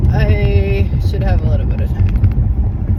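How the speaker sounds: talking while driving over bumps; on a bumpy road. Real, not acted. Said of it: "Sorry for the bumps in the road".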